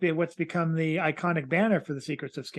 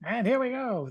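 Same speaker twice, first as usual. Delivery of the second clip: 1940s baseball announcer; 5 semitones higher than usual. Acted. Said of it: "like a nineteen forties baseball announcer".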